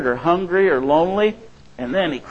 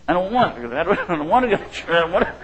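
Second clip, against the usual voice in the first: put-on high, childish whine of refusal; whiny little kid; 3 semitones higher, faster than usual. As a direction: pout it out like a sulking child. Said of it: "we can act like little kids".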